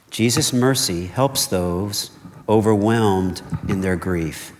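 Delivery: slowed right down, each word of "Jesus' mercy helps those overwhelmed in their grief" weighed; slow emphatic restatement. Shown as a demonstration. Preacher repeating the main point to the congregation, slow and weighty. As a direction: repeat it slowly so it sinks in. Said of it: "Jesus' mercy helps those overwhelmed in their grief".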